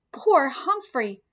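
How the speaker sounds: slow, tender pity; girl hugging her pet hamster, tender; tender sympathy. Acted. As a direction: comfort the little hamster, slowly. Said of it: "hugging me".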